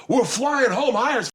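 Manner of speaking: high-pitched gloating taunt; hammed-up gleeful cry; mock crowing. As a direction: imitate a prankster whooping at his victim. Acts Joey's crowing taunt.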